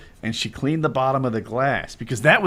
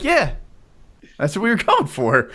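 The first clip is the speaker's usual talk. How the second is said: mock sarcastic parent; 4 semitones higher than usual. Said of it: "they're like".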